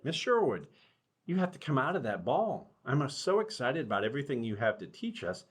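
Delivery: excited rabbit. Acted. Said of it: "Remember, the rabbit's very excited".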